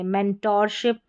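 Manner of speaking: मेंटोरशिप said "men-tor-ship"; full O sound. Shown as a demonstration. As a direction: round "o" in the middle of मेंटोरशिप. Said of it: "ओ करके".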